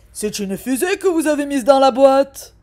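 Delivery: loud accusing query; indignant dad. Acted. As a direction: challenge her like an irritated father. Dad questioning waitress.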